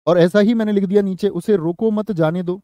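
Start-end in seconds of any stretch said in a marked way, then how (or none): 1.3-2.6 मत joined to उसे रोको, then जाने दो; group उसे रोको मत together before जाने दो; pause after मत. Shown as a demonstration. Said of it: "विराम चिन्ह अलग होगा". ("मत" के बाद विराम)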